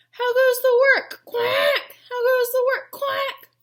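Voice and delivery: loud, high farmer's call. Acted. Farmer calling, duck quacking.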